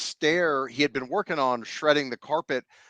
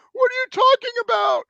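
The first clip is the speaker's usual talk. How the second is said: much higher, louder, close to tears; upset eight-year-old; 5 dB louder than usual. Retold or imitated. Boy told by cousin his dog is dead, high tearful disbelief. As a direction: plead like a kid whose lip is quivering. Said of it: "My little lip is quivering".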